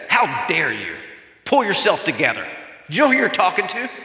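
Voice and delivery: imitating an offended authority, pitch climbing to the last question; hammed-up indignation, rushing the final question; mock indignant rebuke. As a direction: act out a scolding that never happened. Imagined indignant rebuke from Jesus, then negated.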